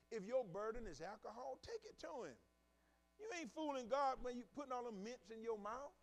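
loud rising preacher's cry; preaching at full force. Acted. Preacher urging the congregation, at full force.

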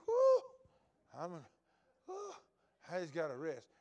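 overdone tired whoo; mock exhausted sigh. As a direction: play the lazy member catching breath. Mocking tired churchgoer.

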